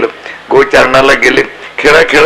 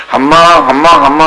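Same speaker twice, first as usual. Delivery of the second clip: cow lowing. Retold or imitated. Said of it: "ती जोर जोराने ओरडायला लागली".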